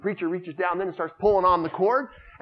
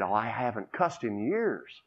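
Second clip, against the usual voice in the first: sheepish; 4 semitones lower, 4 dB quieter, slower than usual. Acted. Preacher's sheepish reply.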